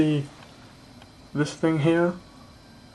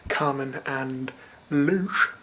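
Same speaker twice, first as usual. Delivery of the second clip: drawn-out silly voice; much slower than usual. Pretend. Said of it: "I don't know why I did that".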